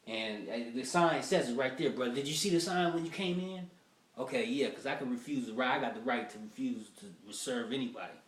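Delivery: a touch of a blunt owner; buffet owner. Retold or imitated. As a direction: point at the sign, unbothered. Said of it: "black buffet owner, he don't care".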